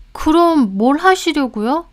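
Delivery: lightly voiced maid probing; a hint of a puzzled maid; questioning maid. A narrator's reading.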